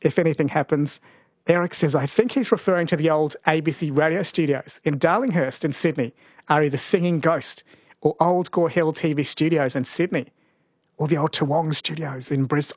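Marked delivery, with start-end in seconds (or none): 1.9-12.8 ghost voice. Pretend. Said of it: "I don't know why I'm doing a ghost voice".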